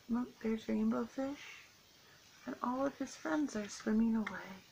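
gentle storybook narration; reading to children. A narrator's reading. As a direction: read it like a picture book for kids. Reading picture book to children.

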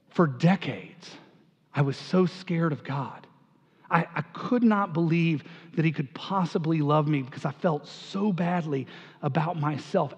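hushed and halting, overcome by grace; understated tearfulness, pausing between phrases; imitated tearful confession. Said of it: "She's just sobbing".

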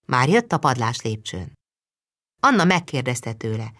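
usual speaking voice

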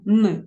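hard, unsoftened N sound. Shown as a demonstration. Teacher sounding out a consonant for pupils, hard N. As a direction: say "н" hard, without softening. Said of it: "твердий".

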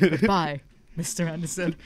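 a hint of a sinister agent's farewell; mock-menacing sign-off, lightly voiced; Hugo Weaving impression. Shown as a demonstration. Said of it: "give me your best Mister Anderson right now".

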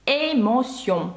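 "Емоціон" slowly, French, ending on nasal ON. Shown as a demonstration. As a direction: draw out "Емоціон" with no hard final N. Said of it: "наприкінці перший носовий «он»".

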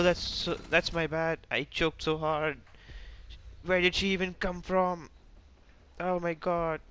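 high, distressed self-blame; dismayed apology. Real, not acted. Player apologising to teammates for choking, dismayed.

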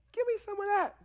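high, loud eager demand; excited, high-pitched playful plea; acted eagerness. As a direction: jump at someone else's good cheer. Acts eager reply to fabulous greeting.

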